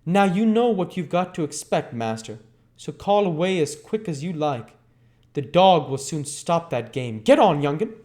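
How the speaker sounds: put-on bully the boy forward; threatening thug. Sikes warns Oliver and drives him on, menacing.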